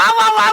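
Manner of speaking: mock babble. Imitating tongues babble.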